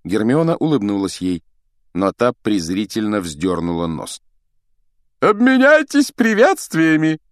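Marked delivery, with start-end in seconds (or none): 5.2-7.2 high, ringing order; loud command. A narrator's reading. Teacher on the stage ordering duellists to greet, commanding. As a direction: call the command out to the whole hall. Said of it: "скомандовал с подмостков Локонс".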